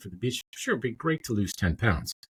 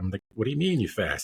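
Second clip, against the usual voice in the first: ordinary talk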